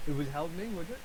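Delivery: dry, mocking question with a rising end; sarcastic. Real, not acted. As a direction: say it with a sneer, doubting it. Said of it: "That was very sarcastic".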